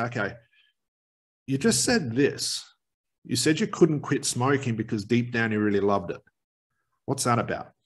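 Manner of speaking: slowed-down tone. Shown as a demonstration. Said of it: "you can see I'm slowing down my tone".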